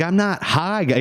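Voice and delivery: high-pitched protest of innocence; squeaky defensive denial; stoned denial. Retold or imitated. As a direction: insist you're not high while clearly high. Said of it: "imagine being sixteen and telling".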